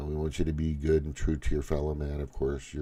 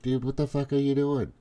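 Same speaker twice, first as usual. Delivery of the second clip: higher exasperated dude-to-dude outburst; mock exasperation; 8 semitones higher than usual. Imagining scolding his buddy, higher exasperated mock outburst. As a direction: throw it at your buddy like you can't believe him.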